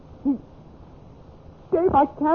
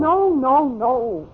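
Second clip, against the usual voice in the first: higher and louder, pleading no; desperate denial; 3 semitones higher, 3 dB louder, much slower than usual. Acted. Sister begging her brother not to believe it, frantic. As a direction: cry out the denial in panic.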